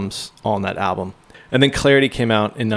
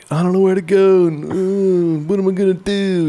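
high, strained orca voice; killer whale voice; 9 semitones higher than usual. Acted. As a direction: squeak it out like a lost whale. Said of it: "That is an amazing killer whale impression".

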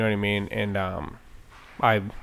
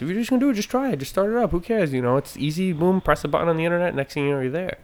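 Joe Rogan; 7 semitones higher than usual. Retold or imitated. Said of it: "he was talking to people about podcasts".

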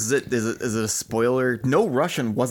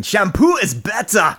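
slow, higher comic quote; movie quote voice; 7 semitones higher, slower than usual. Retold or imitated. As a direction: deliver it like the movie line. Quoting Billy Madison line.

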